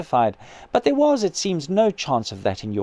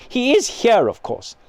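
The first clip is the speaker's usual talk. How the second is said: almost fierce; 8 semitones higher, 3 dB louder than usual. A narrator's reading. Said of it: "and then almost fiercely".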